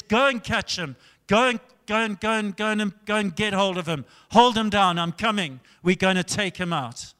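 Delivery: urgent, repeated retold orders; mildly hammed-up angry urgency; angry king. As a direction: rattle out commands like an angry king. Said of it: "He was angry".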